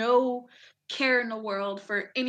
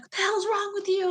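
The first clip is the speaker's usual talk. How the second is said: higher-pitched mock telling-off; indignant challenge, pitched up; retold cussing out; 10 semitones higher than usual. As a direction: imitate an indignant sergeant cussing someone out. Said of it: "starts cussing out my master sergeant".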